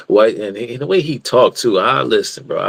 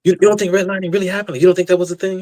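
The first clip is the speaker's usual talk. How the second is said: mock incredulous debater; 6 semitones higher, much faster than usual. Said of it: "quoting the debater".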